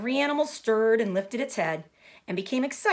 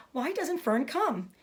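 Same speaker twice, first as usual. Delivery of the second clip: tearful piglet; 6 semitones higher, slower than usual. Acted. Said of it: "He began to cry".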